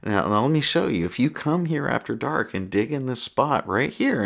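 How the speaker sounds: imitating a hushed confidential aside, not truly whispered; whispered confession. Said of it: "you know, whispers".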